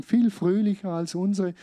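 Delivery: insisting he cannot preach, worked up; agitated protest. Retold or imitated. Retold protest continues.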